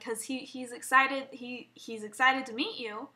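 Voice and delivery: slow, faltering restarts; hesitant, repeating the opening words; nervous stuttering. Retold or imitated. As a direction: retell yourself stumbling through an awkward explanation. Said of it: "I started stuttering".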